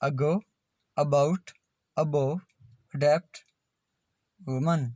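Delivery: "अगो, अबाउट, अबोव" as separate words, opening on a short "अ"; unstressed A demo. Shown as a demonstration. Teacher listing examples for learners, carefully spacing "अगो, अबाउट, अबोव, अडेप्ट, वुमन". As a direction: model "अडेप्ट, वुमन" word by word with a short neutral A. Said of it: "ए का उच्चारण ए".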